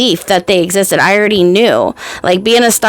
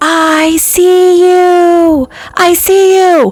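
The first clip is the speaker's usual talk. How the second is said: very high, slow, shrill, drawn-out top-of-lungs yell; 10 semitones higher than usual. Retelling shouting at lights in the sky: imitating a yell at the top of lungs. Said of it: "I yelled at the top of my lungs".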